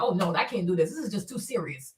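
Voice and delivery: scared hush. Retold or imitated.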